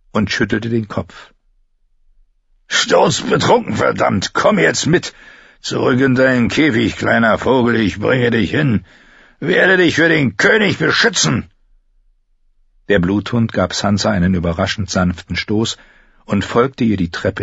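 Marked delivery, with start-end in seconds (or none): 2.7-11.5 put-on a drunk man goading the girl; drunken taunting. Bluthund führt Sansa zurück. (betrunken spottend)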